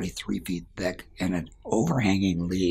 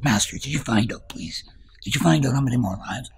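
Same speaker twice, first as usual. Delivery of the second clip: higher, louder, rushing to ask; can't wait to know; eager question; 5 semitones higher, 4 dB louder than usual. Acted. Young dancer eagerly asks.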